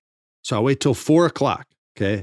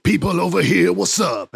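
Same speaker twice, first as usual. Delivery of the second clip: higher-pitched rap hype call; R-Truth; 6 semitones higher than usual. Retold or imitated. Wrestler to the crowd as his music hits, hyping them up. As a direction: work the crowd with a catchphrase. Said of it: "he's doing his rap".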